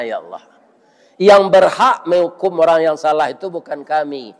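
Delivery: a preacher turning to supplication; earnest prayer. Real, not acted. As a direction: pray it humbly before God. Prays for the cheaters mid-sermon.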